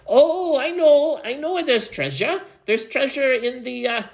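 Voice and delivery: high-pitched, eager interruption; eager young listener. Acted. Listener interrupts the storyteller about treasure, high eager voice.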